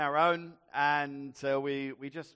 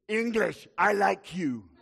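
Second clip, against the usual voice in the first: jovial barman; 4 semitones higher, 5 dB louder than usual. Retold or imitated. Barman warms to tourist.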